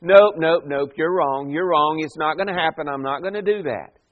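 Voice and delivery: emphatic, repeated refusal; imitating a stubborn disciple who won't listen; Peter. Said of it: "It's emphatic. It is repeated. He won't listen".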